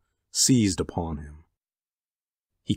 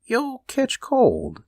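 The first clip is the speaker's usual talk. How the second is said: high, slow, caring warning; tender concern; much slower than usual. A narrator's reading. Husband worried about his weeping wife, tender. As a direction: fuss over her tenderly. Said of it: "he said tenderly".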